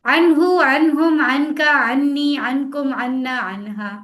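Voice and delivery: no pause between words, quick and loud; fast without stopping. Shown as a demonstration. Teacher showing students how to read fast without stopping. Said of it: "देखिए, मैं रुकी भी नहीं".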